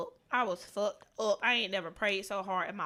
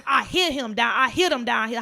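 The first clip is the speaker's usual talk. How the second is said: louder, shouted instructions; brother calling out; 8 dB louder than usual. Retold or imitated. Brother at graduation yelling where he hit the boy, loudly. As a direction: call it across the bleachers. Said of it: "My brother Thomas".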